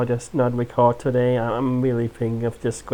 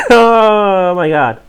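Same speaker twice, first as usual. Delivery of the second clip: exasperated groan; 5 semitones higher, 11 dB louder, much slower than usual. Real, not acted. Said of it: "I'm so tired".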